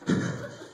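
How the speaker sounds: worn-out exhale; breathy huff of effort; heavy sigh. Acted. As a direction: let out a weary breath. Acts himself sitting there panting.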